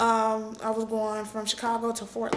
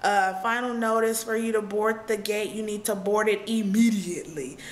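final boarding call. Retold or imitated. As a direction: imitate an airline agent's last warning. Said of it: "that's when the person was just like".

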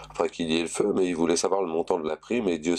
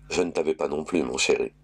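sweetly. Acted.

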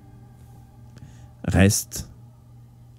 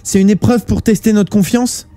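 much higher female voice, anxious; much higher, louder anxious girl's voice; Noriko's pleading voice; 13 semitones higher, 4 dB louder than usual. Acted. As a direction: plead for it to be a test.

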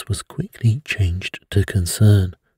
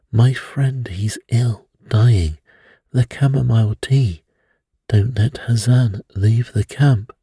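urgent alarm; 4 semitones higher than usual. Acted. Friend poisoned, urgent plea.

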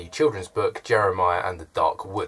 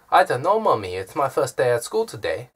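higher, louder childish voice with a put-on accent; imitating a little kid; 5 semitones higher, 4 dB louder than usual. Boy arriving at school talks to his mummy, imitated higher and louder. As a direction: mimic the small boy whining to his mum. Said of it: "sounds like I'm doing a racist accent".

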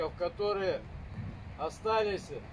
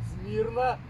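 drill command; 4 semitones higher, 5 dB louder than usual. Real, not acted. Order to stand at attention.

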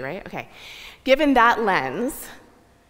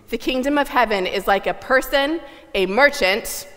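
louder, fully hammed-up stage reading; bigger stagey melodrama; 2 semitones higher, 4 dB louder than usual. Shown as a demonstration. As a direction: push the melodrama even further.

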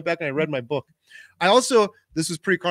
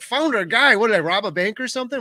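mock indignation, pitched up; retold incredulity; 5 semitones higher than usual. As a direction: throw it back as a disbelieving question. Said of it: "I'm like".

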